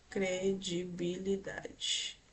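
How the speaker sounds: very slow and soft, syllable by syllable; slow dictation. Real, not acted. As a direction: spell it out slowly while writing. Dictating while writing on the board.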